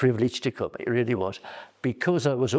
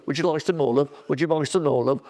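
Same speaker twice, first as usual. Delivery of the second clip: imitating dinner lady; 4 semitones higher, 3 dB louder, faster than usual. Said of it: "she did to everybody".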